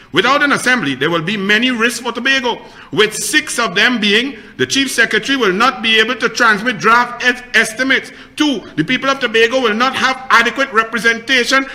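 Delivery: brisk, formal read-out; steady public statement reading; reading a statement aloud. Real, not acted. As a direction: read the official list point by point. Reads out a written statement.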